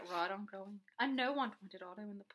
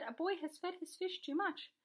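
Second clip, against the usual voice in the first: higher-pitched announcement; raised, insistent telling; urgent report; 7 semitones higher than usual. A narrator's reading. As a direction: report the emergency as a statement. Policeman reports the emergency.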